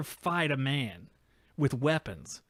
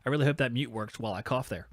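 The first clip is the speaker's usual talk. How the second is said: usual speaking voice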